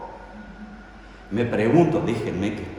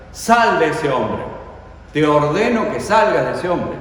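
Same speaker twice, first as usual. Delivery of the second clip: firm command; 4 semitones higher, 5 dB louder than usual. Acted. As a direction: drive the spirit out with a firm order. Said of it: "le da una orden". (orden firme y más fuerte)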